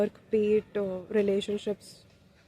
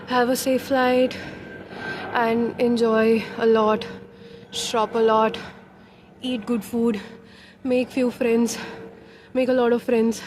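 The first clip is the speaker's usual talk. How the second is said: calling out loud on the rooftop; excited outdoor shouting, out of breath; 3 semitones higher, 6 dB louder than usual. Real, not acted. Shouting from terrace, panting.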